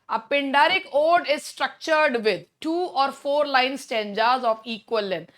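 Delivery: very slow, deliberate question reading; slow quiz-reading voice; reading exam question. Acted. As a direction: spell out the question word by word. Reads question slowly.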